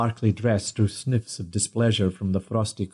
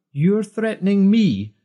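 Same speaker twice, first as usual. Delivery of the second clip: mocking sneer; 11 semitones higher, 5 dB louder than usual. A narrator's reading. Rob mocks Peter's threat.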